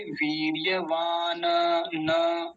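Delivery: वीर्यवान said slowly with a full, open न at the end; drawn-out final न. Shown as a demonstration. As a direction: voice the last न of वीर्यवान as a whole syllable. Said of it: "ऐसा बोलते". (वीर्यवान के अंत में पूरा न, धीरे)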